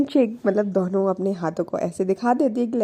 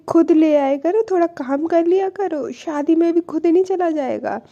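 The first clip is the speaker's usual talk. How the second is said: louder, higher mock telling-off; retold scolding; 6 semitones higher, 4 dB louder than usual. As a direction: act out a peeved scolding, raised voice. Acted scolding in texting quarrel.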